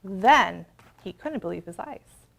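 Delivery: ordinary delivery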